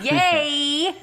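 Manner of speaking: high, loud, stretched-out cheer; exaggerated on-air whoop; mock radio voice. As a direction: imitate an over-hyped radio host. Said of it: "you get all like".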